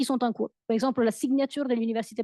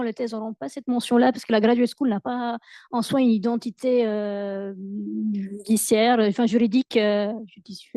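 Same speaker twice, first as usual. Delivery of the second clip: foreign accent in French. Real, not acted. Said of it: "Mon français, désolé".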